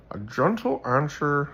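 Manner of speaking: light wizard voice on a proverb. Acted. Reading Proverbs to viewers, a light wizard voice. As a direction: read it like an old wizard, lightly. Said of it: "sounds like my wizard".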